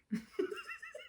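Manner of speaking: high quiet giggle; soft real laugh. Real, not acted. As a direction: giggle at the movie idea. Laughing at movie idea.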